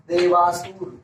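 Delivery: drawn-out answer. Shown as a demonstration. Teacher answering own question for students, drawn out. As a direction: sound out देवासुर syllable by syllable.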